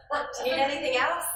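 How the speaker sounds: friendly, smiling offer; with a smile. Shown as a demonstration. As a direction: ask it gladly, smiling. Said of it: "You can say that with a smile".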